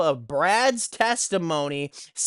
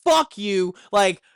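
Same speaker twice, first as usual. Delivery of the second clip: retold yell; 2 semitones higher, 4 dB louder than usual. Yelling at the kid soaking the neighbor's van, fed up. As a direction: snap it at him like you're done with him. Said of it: "I kinda yell at him".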